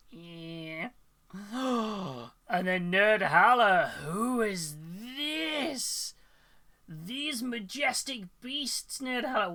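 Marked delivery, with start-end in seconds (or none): 2.5-9.5 slow, awed, majestic voice; nature documentary. Pretend. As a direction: present them like a wildlife narrator. Awed intro of fuzzy cats.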